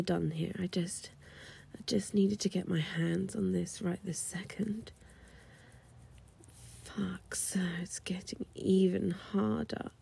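hushed, intimate whisper; seductive whisper. Acted. Stewardess reassuring the client, intimate whisper. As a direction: keep it secret and close.

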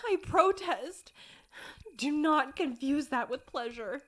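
loud, defensive denials; flustered protest. Acted. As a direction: insist loudly, flustered.

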